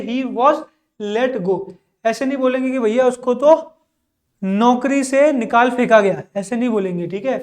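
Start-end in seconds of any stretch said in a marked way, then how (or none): 0.0-1.6 he was let go, each word slow and spelled out; slow model phrase. Shown as a demonstration. Teacher modelling the polite phrase slowly for students. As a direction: read it out slowly for students to repeat. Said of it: "उसकी जगह क्या बोलेंगे".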